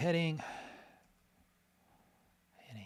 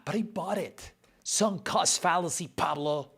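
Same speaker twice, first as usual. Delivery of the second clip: self-mocking outburst; 8 semitones higher, 9 dB louder than usual. Real, not acted.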